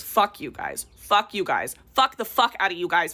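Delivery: defiant swearing. Real, not acted. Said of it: "wanna whip out this accent".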